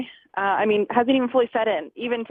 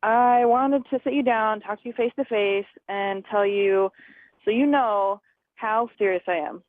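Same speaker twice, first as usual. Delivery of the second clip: slow, serious retold boss; dropped voice. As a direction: imitate a boss slowing down gravely. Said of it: "he dropped his voice just like that".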